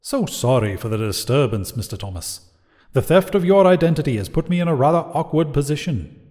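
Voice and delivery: lightly voiced suave politeness; a hint of a charming devil; most pleasant voice. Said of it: "talk in a most pleasant voice".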